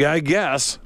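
a reluctant, put-upon "I guess"; waitress conceding with a grudging "I guess". Retold or imitated. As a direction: mimic the waitress's grudging shrug of a reply. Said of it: "like that, right?".

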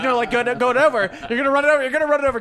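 dad yelling at a new driver to swerve. Retold or imitated. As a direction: warn him loudly, rising alarm. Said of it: "he goes".

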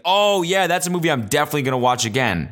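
high, eager exclamation easing down; mock enthusiasm. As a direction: overplay instant keenness, then rattle it off. Imagined eager reaction to a menu.

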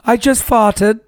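prim British put-on for crude words; mock British accent. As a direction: say it in playful fake British. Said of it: "Yeah, that did sound good".

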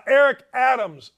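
loud, punched-out name; yelling. Real, not acted. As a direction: project it too loud, like a radio host. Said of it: "why am I yelling?".

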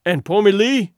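a hungry villager crying out for her kin. Acted. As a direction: call out the name in fear. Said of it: "cried one of the two".

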